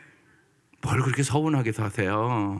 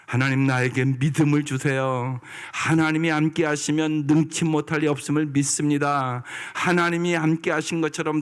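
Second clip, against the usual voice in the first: showing the church how to pray; earnest prayer; 3 semitones higher than usual. Shown as a demonstration. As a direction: pray it with growing fervor. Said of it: "그렇게 기도하는 거잖아요".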